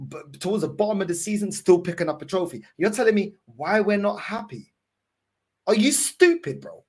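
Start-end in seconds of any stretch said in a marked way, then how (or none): 5.7-6.8 incredulous shout. Real, not acted. Fan yelling at the manager in disbelief. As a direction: throw the insult at him.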